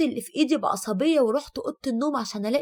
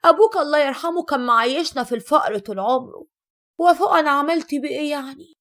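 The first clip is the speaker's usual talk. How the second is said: louder, scornful mother's comeback; mocking retort; 5 dB louder than usual. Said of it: "ردت أمي بتريقة وقالت".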